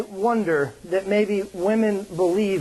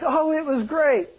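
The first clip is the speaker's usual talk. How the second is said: higher-pitched mock weepy gushing; imitated tearful wife; 6 semitones higher than usual. Wife after a Hallmark movie, lightly imitated as tearful. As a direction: lightly imitate someone moved to tears. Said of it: "And she's crying".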